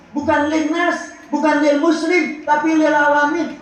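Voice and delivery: "lil alamin" drawn out and pressed, each "bukan" rising; stress on lil alamin. Shown as a demonstration. Preacher correcting the congregation, pressing lil alamin.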